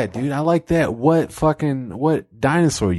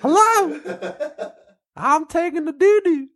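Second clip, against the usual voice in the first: redneck God. Acted. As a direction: call out high like a redneck. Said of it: "It's some redneck".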